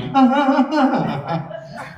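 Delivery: high, forced ha ha that fades out; hollow put-on audience laugh; fake laugh. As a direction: pretend to find it funny through clenched resentment. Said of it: "trying to fake it".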